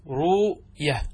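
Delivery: "روية" split slowly as ruu... yah; "روية" in two parts, ruu, then yah; hamza softened away. Shown as a demonstration. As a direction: draw out the u in "روية", no glottal stop. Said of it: "إن عرضت الياء أو الواو للسكون".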